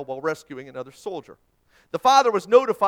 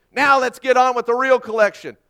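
loud, higher, rude barking demand; abrasive shout; 6 semitones higher, 10 dB louder than usual. A narrator's reading. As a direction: snap at the auctioneer to hurry up. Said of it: "shouted abrasively".

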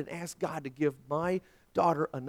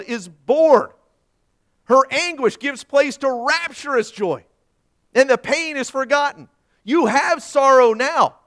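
loud, high-pitched preaching; big declamatory reading, leaning on key words; forceful scripture proclamation; 6 semitones higher, 11 dB louder than usual. Acted. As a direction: build to a ringing promise from the pulpit. Preacher proclaims Jesus' promise.

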